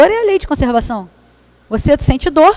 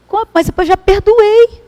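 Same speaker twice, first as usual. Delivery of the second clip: indignant wife; 8 semitones higher, 5 dB louder than usual. Acted. Wife protesting to Chico that she already forgave, in a high put-on voice. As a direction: drag out the protest, much higher and louder.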